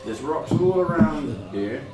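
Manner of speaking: ship captain voice. Acted. GM voices captain describing island.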